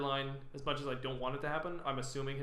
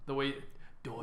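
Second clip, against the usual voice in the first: put-on New Yorker accent; 4 dB quieter than usual. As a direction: attempt at a New York "daughter". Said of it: "it sounds like New Yorker".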